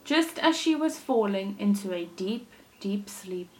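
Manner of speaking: put-on lively storytelling for children; animated read-aloud for little listeners; story narration. A narrator's reading. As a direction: read it like a picture book to a class. Teacher reads story aloud.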